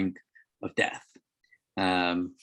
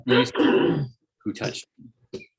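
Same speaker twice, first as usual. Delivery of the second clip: hushed, searching whisper; urgent whisper; 4 semitones higher, 5 dB louder, much slower than usual. Acted. Jesus pressing the crowd again, in an urgent whisper. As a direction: breathe the question as if scanning the crowd.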